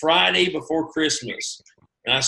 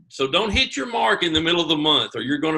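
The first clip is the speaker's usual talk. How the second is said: loud fast warning; 3 dB louder, faster than usual. Real, not acted. Warning shouted, x1.4 shout.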